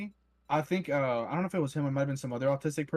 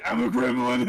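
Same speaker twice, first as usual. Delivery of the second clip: high, loud little gremlin squeak; 8 semitones higher, 6 dB louder than usual. Pretend. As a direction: play a giggly gremlin, pitched up. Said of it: "it's the goblin in us".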